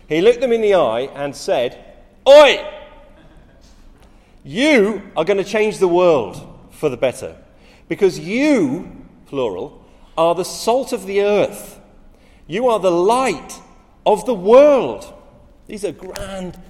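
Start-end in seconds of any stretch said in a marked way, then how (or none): 2.3-2.6 sudden shouted Oi, much higher and louder; loud call. Acted. Jesus calls to his disciples. 4.4-15.1 louder and slow, every phrase declared; rousing proclamation. Acted. Jesus proclaims to his disciples.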